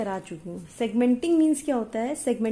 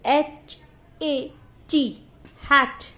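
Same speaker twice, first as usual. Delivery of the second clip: एच ए टी run together, hat said louder; blended; 3 semitones higher, 4 dB louder than usual. Shown as a demonstration. Teacher shows blending to pupils, sounds joined. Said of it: "Hat is blending".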